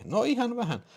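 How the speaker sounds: very high falsetto reply; woman caller. Acted. (naisääni korkeassa falsetissa)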